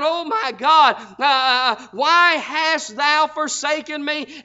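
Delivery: loud, slow anguished cry. Acted. Jesus cries out to God, forsaken, loud and slow. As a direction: wail it out to heaven. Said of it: "and he cried out".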